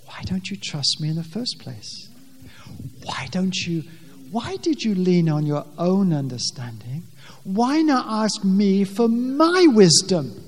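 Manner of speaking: a gentle, questioning rebuke; a hint of a gentle Heavenly Father. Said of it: "And the Heavenly Father says".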